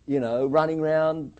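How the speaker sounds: slow, loud protest climbing high; heated, drawn-out argument, high and loud; impassioned warning. Retold or imitated. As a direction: spell out the danger, rising in pitch and force. Acted argument, warning of danger.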